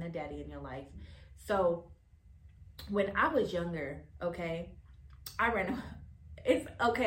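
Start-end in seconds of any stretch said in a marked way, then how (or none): 5.4-7.1 laughing. Real, not acted. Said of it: "I'm laughing".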